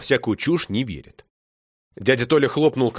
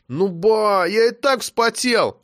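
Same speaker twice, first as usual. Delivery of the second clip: put-on boy protesting; 9 semitones higher, slower than usual. A narrator's reading.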